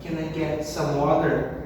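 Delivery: water said wader in the question; casual American request, T flapped. Shown as a demonstration. Teacher acting out ordering water, American flap. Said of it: "parecido com um D".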